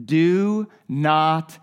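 calm a frightened man; Jesus soothing Simon; slow reassurance. Retold or imitated. Jesus' words read slowly.

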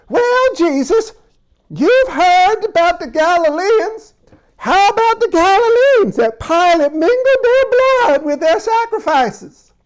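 a comic British voice for the crowd questioning Jesus; mock British accent. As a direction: lift the voice high and play an overdone Brit. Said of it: "My accents have apparently changed".

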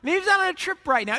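high, mock-helpful suggestion; talking smack. Elijah making excuses for their absent god, talking smack. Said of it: "he's just totally talking smack with them".

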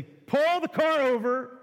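mock-urgent, awestruck; overwhelmed request. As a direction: demand a stop to take it all in. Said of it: "at this point they say".

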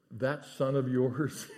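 slow, scornful sneer at son of yours; scornful brother. Retold or imitated. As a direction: spit out son of yours with contempt, half laughing. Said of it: "Did you hear the difference?".

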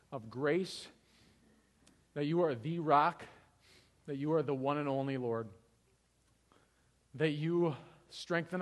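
measured, reverent public prayer; unhurried prayer, pausing between praises; closing prayer. Acted. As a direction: pray aloud in spaced, deliberate phrases.

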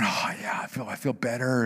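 breathy, relieved and calm; relieved sigh. Retold or imitated. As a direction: let out the relief. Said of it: "he's starting to calm down".

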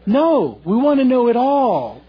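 loud, high mock protest; insistent, drawn-up wail of protest; mock demanding. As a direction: demand it like an impatient crowd. Voicing everyone's demand to know.

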